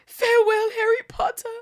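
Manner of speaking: high, loud elf goodbye; elf farewell. Acted. Dobby saying farewell to Harry, high elf voice. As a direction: call it out as he vanishes.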